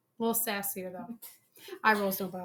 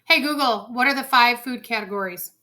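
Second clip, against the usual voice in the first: louder, clearer repeat to the speaker; voice command; 2 semitones higher, 6 dB louder than usual. Real, not acted. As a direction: call the speaker again. Asking smart speaker again.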